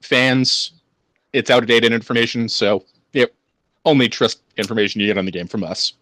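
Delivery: smug corporate reply. Retold or imitated. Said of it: "publicly said".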